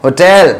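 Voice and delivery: होटल said clearly as "ho-tel" for students to copy; होटल spoken carefully as a pronunciation drill; teacher's pronunciation. Shown as a demonstration. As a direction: model the word होटल slowly and distinctly. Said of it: "बोल के देखिए".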